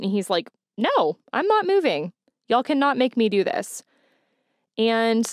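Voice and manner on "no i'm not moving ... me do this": imitated defiance, pitched up; retold angry refusal. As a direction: act out an angry kid digging in, without shouting. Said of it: "Matthew's even angrier at this point".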